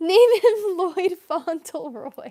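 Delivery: very slow, high, loud, giggling delivery. Reading out a viewer's name suggestion for the creature, laughing while talking. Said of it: "I don't know why that made me laugh".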